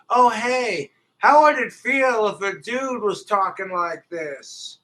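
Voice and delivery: high, loud mocking quote; mock article writer. Man mimics women who write BuzzFeed type articles, high mocking voice. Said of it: "these women who write these bullshit BuzzFeed type articles go".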